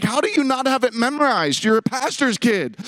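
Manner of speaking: high, indignant mock outburst; retold screaming. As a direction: pitch it up in mock panic. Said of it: "I'm screaming".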